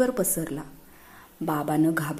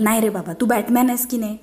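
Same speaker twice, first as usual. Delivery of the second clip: put-on higher, pestering little-boy voice; eager child pleading; 3 semitones higher, 4 dB louder, faster than usual. Boys pestering their father, eager higher child voice. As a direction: coax dad eagerly.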